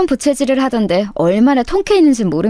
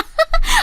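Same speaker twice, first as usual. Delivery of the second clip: a high, rising sneering giggle; mocking laugh. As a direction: laugh at her as if it's all a joke. 비꼬는 동창의 웃음. (비웃는 높은 웃음)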